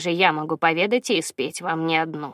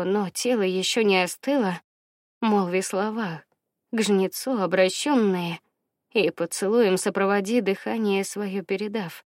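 grave, ceremonial reading; solemn voice. Acted. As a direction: intone it like an ancient rite. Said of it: "самым торжественным голосом из всех, что могла изобразить".

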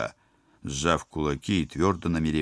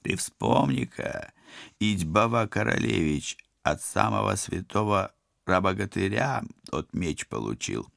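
villain voice; 5 semitones higher than usual. Acted. Koshchei mocks the hero.

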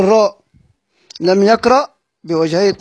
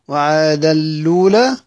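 slow recital. Shown as a demonstration. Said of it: "لأنه بيضغم التنوين".

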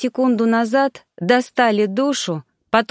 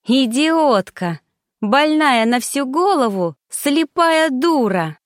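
self-scolding; 5 semitones higher, slower than usual. Acted. Self-reproach outburst.

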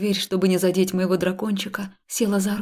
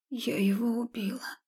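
quiet whispered confession; 4 semitones higher, 9 dB quieter than usual. Acted. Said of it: "тихо созналась я". (тихое признание шёпотом)

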